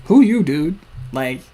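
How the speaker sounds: a loud, high, disbelieving who you; incredulous. Acted. Kid reacting to the stranger's claim, incredulous.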